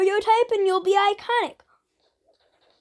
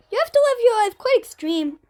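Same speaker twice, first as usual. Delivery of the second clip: put-on Russian accent; 5 semitones higher, 3 dB louder than usual. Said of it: "stop doing the Russian accent".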